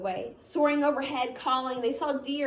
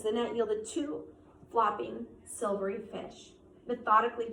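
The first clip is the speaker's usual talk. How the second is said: story narration. A narrator's reading. Teacher reads the novel aloud.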